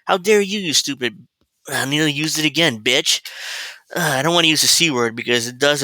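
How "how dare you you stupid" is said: high, slow sneering "how dare you"; a hammed-up mock tirade; mocking rant at Harris. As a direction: mimic her outrage, pitched way up and dragged out.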